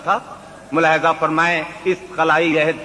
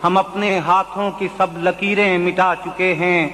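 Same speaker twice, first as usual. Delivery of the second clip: poetry recitation; 2 semitones higher than usual. Acted. Mushaira recitation of ghazal.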